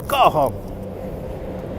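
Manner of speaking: whispered go home. Pretend. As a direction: whisper it to the snow. Telling snow to go.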